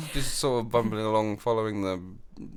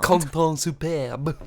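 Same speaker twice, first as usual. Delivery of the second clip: slow, higher, hammed-up French; mock French; 6 semitones higher, 4 dB louder, much slower than usual. Partner mimicking her slip, mock French. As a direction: draw out "superbe" in French style.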